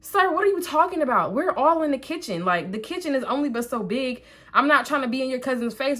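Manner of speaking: high, exasperated comeback; retold indignant rebuttal; arguing back. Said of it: "like, we're arguing".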